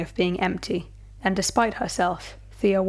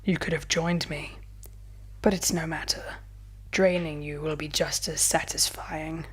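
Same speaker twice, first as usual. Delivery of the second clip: soft menacing whisper, much softer; murmured; 4 dB quieter than usual. A narrator's reading. Vampire about to bite Thea, whispering menace. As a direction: hush it close to the neck. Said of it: "he murmured".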